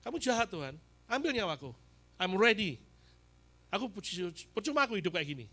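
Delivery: mild anguished shout at heaven; retold cry to God. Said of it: "Saya teriak sama Tuhan".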